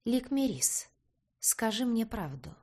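мягко, вкрадчиво, чуть выше; уговаривай ласково и вкрадчиво. A narrator's reading. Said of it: "вкрадчиво заговорил". (вкрадчивый голос)

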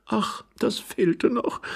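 high, slow woman's voice; vexed young wife. Acted. Wife rejects sending someone upstairs, vexed. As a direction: sigh it high in annoyance.

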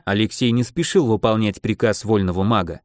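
ordinary delivery

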